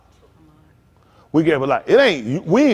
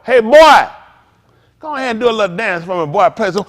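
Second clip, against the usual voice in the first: mock white boss; 3 semitones higher, 6 dB louder than usual. White folk ordering a dance.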